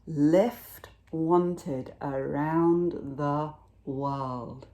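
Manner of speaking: very slow, drawn-out sign reading; slow announcement. Acted. Snail's silvery trail read out as a sign, very slow. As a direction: spell out the message word by word.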